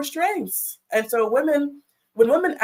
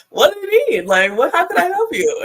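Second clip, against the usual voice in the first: high, loud, comically keen husband; playfully imitated eager helpfulness; eager to help; 8 semitones higher, 5 dB louder than usual. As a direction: jump to it, overeager and pitched up. Retold husband suddenly eager to help.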